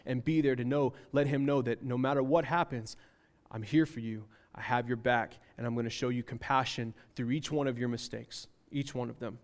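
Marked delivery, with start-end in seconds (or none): 3.5-9.4 low, soft reassurance; reassuring parent. Acted. Parent telling the child he has their back, softly reassuring. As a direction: lower the voice and gently reassure the child.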